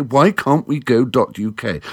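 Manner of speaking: usual speaking voice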